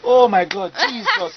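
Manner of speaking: shrieking, high church-mom cry; shocked mom voice. Retold or imitated. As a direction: panic like a horrified mother. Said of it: "it was like".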